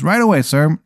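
a hint of an eager-to-serve waiter; obliging waiter. Waiter takes an ice water order, lightly chirpy.

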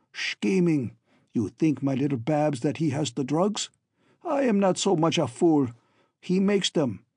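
lightly voiced, suspicious villain; scheming villain. Villain refuses to be fooled about the drugs, suspicious. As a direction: argue as a distrustful captor with a foreign accent.

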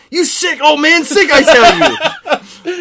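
high, loud, drawn-out disgust; outraged Snape. Acted. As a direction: spit it out slowly in revulsion.

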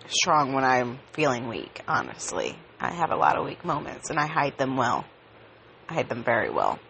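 sleepy, just woke up; heavy groggy morning voice; anesthesia groggy. Real, not acted. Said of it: "sorry if I sound really groggy".

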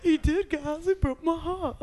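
quiet mock hurt, covering with a laugh; hiding pain. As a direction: say it softly, like a brave face over hurt. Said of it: "you can hear the pain in my voice".

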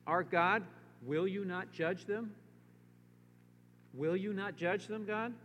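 preacher reading scripture with rising pleas. Acted. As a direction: read it as a pleading prayer. Preacher reads Jehoshaphat's prayer.

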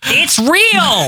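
high-pitched insistent yell; mock heckling cry. Co-host plays an Underpants fan, mock outraged cry. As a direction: cry it out like a die-hard fan.

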